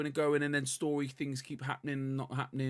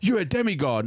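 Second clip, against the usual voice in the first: louder imitation of a Scottish accent; mock Scottish accent; 5 semitones higher, 7 dB louder than usual. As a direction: ham up a Scottish hero's accent. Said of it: "his Scottish fucking accent".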